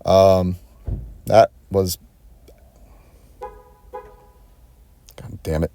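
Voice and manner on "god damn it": slow, breathy whispered oath under his breath; whispered curse. Real, not acted. Fed up with the car parking beside him, slow whispered curse. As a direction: let it slip out as a slow whisper.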